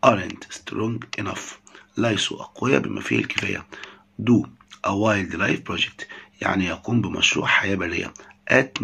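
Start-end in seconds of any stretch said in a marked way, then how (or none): 0.1-1.6 very slow, careful English; slow model phrase. Shown as a demonstration. Teacher models the phrase slowly for students. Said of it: "teacher models the English phrase". 4.2-6.1 very slow, careful English; slow model phrase. Shown as a demonstration. Teacher models the phrase slowly for students. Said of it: "teacher models the English phrase".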